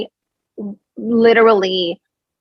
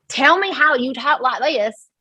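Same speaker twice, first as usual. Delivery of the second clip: mimicking her fake Southern accent; mock fake Southern accent; 5 semitones higher than usual. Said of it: "she uses an accent that is not her own".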